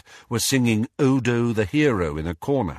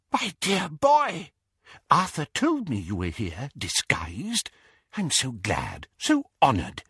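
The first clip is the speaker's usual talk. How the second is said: put-on fluttery old wizard; 4 semitones higher, 3 dB quieter than usual. A narrator's reading. Doge meets Harry, high, wheezy and moved. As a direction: savour each word like a tearful old man.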